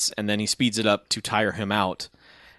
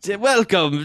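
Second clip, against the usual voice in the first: bad Russian accent; 4 semitones higher, much slower than usual. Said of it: "just a bunch of bad Russian".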